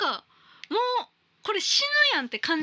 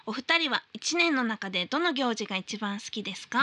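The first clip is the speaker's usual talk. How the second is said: letter reading; 4 semitones lower than usual. Acted. Host reading listener's New Year mail on air, formal read.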